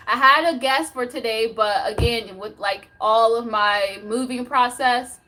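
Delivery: usual speaking voice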